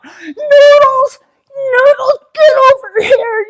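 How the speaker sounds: high, loud frantic call for the dog. Retold or imitated. Husband calling dog off the highway, frantic high yell. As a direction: call the runaway dog in a panic. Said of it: "he's freaking out".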